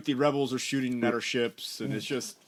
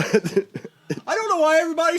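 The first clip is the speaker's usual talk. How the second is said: laughing, high and loud mock innocence; fake-innocent whine through laughter; high, louder, slow mock bewilderment while laughing; sarcastic laughing; 11 semitones higher, 7 dB louder, slower than usual.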